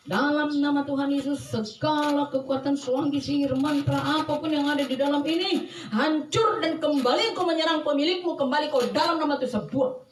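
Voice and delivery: forceful, unbroken prayer of command; emphatic incantatory rebuke; rebuking prayer. Retold or imitated.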